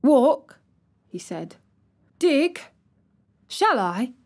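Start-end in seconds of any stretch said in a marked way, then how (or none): 0.0-0.6 startled question. A narrator's reading. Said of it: "Colin flushed tremendously". 2.2-4.1 eager disbelief. A narrator's reading. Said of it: "Colin flushed tremendously".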